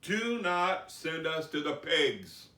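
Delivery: acted demons' entreaty; begging. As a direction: plead slowly, drawing out each word. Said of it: "six thousand demons begged him".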